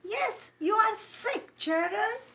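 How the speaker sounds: doctor cat voice. Acted.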